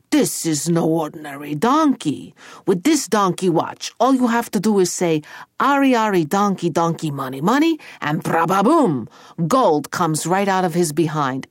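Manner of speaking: a hint of an Italian ogre showman; emphatic ogre, lightly put on; lightly voiced ogre boss. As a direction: present the magic with relish.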